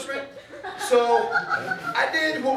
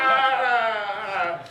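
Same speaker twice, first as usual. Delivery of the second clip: mock slow cry. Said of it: "I would do the slow cry".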